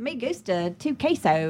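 slow, laughing gringo Spanish; Bush doing Spanish. Pretend. Joining the Bush Spanish bit, slow and amused. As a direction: chuckle through Texan-flavoured Spanish. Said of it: "George W. Bush doing Spanish".

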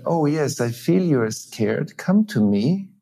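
gentle, inviting comfort rising on come; empathic resonance. Shown as a demonstration. Parent welcoming a frightened child, lightly tender. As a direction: open your arms with your voice. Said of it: "then I create emotional resonance".

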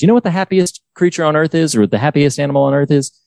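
high, quick folksy coach question; imitating Ted. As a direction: pitch it up like an eager coach. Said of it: "he says".

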